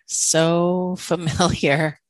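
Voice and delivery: slow, laughing repeat of so familiar. Real, not acted. Host recognising herself, laughing slowly through it. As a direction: let a real laugh break through, drawn out slowly.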